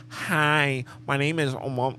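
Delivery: lightly voiced phone agent; a hint of scripted operator; mock call-center greeting. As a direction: imitate an overly proper customer-service introduction. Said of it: "you sound like I'm calling Optimal".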